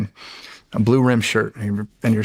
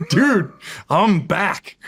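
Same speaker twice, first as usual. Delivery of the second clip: mock cool guy; 7 semitones higher, much slower than usual. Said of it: "you're just like".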